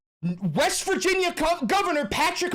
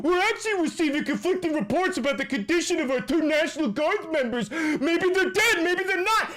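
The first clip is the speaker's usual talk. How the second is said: mock governor. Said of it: "now you're on here going".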